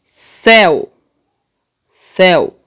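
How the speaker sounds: CÉU as one long syllable; vowels together. Shown as a demonstration. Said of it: "Tá junto?".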